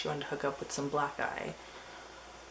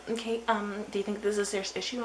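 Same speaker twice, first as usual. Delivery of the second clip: higher, quick helpline voice; mimicked operator, pitched up; annoying hotline operator; 6 semitones higher, faster than usual. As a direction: imitate a hotline worker asking by rote. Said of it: "they were really annoying".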